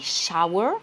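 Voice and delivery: "shower" with a long ow sound, slow; teaching pronunciation. Shown as a demonstration. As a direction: draw out the ow in "shower". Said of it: "un son long et non pas un son court".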